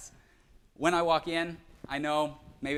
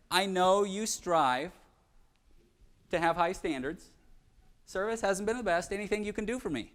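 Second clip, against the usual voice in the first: polite ask; 4 semitones higher than usual. Shown as a demonstration. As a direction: ask gently so the waiter wants to help. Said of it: "Politely ask".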